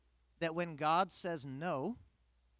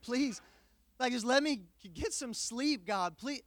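arguing with God; 4 semitones higher than usual. Retold or imitated. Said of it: "quoting God's word back to him".

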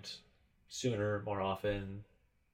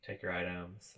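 stiff machine voice; robot voice; 2 semitones lower, 5 dB quieter, slower than usual. Retold or imitated. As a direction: read it like a checkout machine. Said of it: "Robot voice yells at me".

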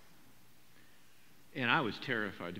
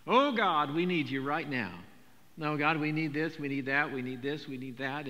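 begging prayer; 5 dB louder than usual. Retold or imitated. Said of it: "We do that, don't we?".

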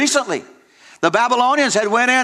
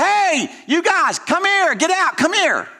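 hollering king; 10 semitones higher, slower than usual. Retold or imitated. Nebuchadnezzar at the furnace door calling the men out, high hollered call. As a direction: call into the furnace, half-acted. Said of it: "hollers out".

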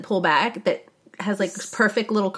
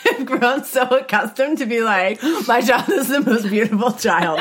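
laughing, raised pitch; 4 semitones higher than usual. Real, not acted. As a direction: boast through laughter. Laughing proud parent.

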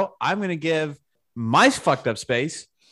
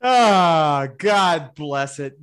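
exasperated; 3 dB louder, much slower than usual. Acted. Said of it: "mock exasperation, said twice".

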